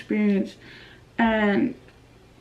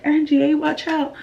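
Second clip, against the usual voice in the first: lightly teasing, raised voice; mock warning; 4 semitones higher than usual. Kids from school making fun of Angie, teasing. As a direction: mimic kids poking fun. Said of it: "they always make fun of me".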